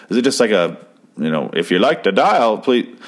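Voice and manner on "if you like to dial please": lightly voiced old-time operator; a hint of vintage switchboard operator; old-timey operator. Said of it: "not o-, that old-timey sounding".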